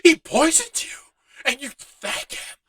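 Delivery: pissed outrage. Retold or imitated. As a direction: imitate the hothead clone chewing him out. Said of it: "he was pissed".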